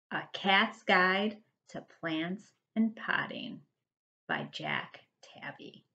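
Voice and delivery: whispered book title. Acted. Narrator whispers the book's title to the children. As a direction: hush it like a secret.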